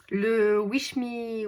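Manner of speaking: slow, careful English with French accent. Real, not acted. Vlogger attempts an English book title, French accent. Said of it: "désolée pour mon accent anglais".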